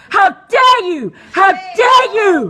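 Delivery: slow, furious "How dare you"; outraged and loud; scolding him to his face; indignant shout. Real, not acted. Shouting at a man in a meeting.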